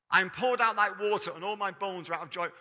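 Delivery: a ringing reading of the psalm. Shown as a demonstration. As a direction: proclaim the verse again with force. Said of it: "Bear in mind".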